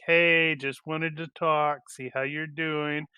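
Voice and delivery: lightly voiced chatty mom, slow; a hint of a sweet mother on the phone. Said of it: "It's totally your mom calling".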